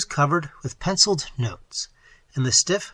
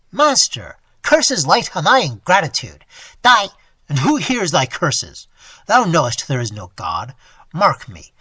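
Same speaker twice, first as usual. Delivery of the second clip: louder, scornful bitter retort; bitter robber; 6 dB louder than usual. Acted. Deformed ward scorning the old miser, bitter loud retort. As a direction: throw his philosophy back at him.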